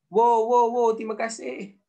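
high, loud, hammed-up wow; sarcastic thanks to the British saviour; mock gratitude. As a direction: gush thanks as if to a saviour, tongue in cheek.

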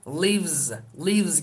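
"Lives" as livz with a buzzed end; voiced z ending. Shown as a demonstration. Teacher models how learners will pronounce it, z ending. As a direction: say "lives" with short i and final z. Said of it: "gibi telaffuz yapacağız".

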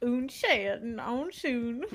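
mock country accent French. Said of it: "I love the country accent".

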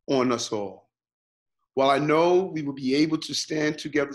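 measured, deliberate public statement; formal address. Real, not acted. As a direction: address the city in careful, separate phrases. Delivers a prepared public address.

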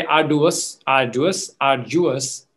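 "arduous" tried several ways, the last with a j sound for the d; "arduous" offered as differing pronunciations, one after another; alternative pronunciations. Shown as a demonstration. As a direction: sound out "arduous" in variants, ending on "ar-joo-us". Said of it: "whichever is correct in your head".

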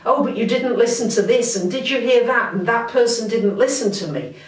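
lightly acted nagging complaint; mock complaining. Astrologer imitating the mind that needs to say things, mildly complaining. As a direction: voice a petty inner grumbler, mildly. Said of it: "all that sort of complaining mind".

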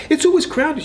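quoting daughter. Retold or imitated. Narrator quoting his daughter.

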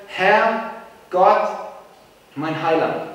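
prayer cry. Shown as a demonstration. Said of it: "Der Schrei des Beters ist hier".

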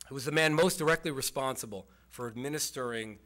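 administering stressed firmly to mark it out. Shown as a demonstration. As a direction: lean hard on administering, slowing into it. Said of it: "I emphasize the word administering".

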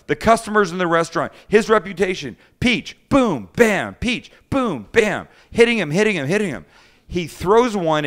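excited retelling. A narrator's reading. Telling friends how the chef pelted the cook, excited. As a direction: build the chaos of the attack.

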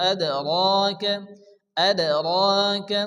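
রাকা with the first vowel drawn out; slow আদ, রাকা, lengthening the ra one beat; one-alif stretch. Shown as a demonstration. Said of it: "র এক আলিফ টান দিয়ে".

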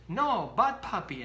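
firm scolding of a puppy; stern scolding. Retold or imitated. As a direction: snap it at the puppy. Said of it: "And you go up to your puppy and says".

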